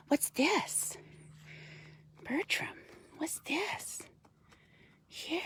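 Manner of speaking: pet talk. Real, not acted. Coaxing the raven in pet voice.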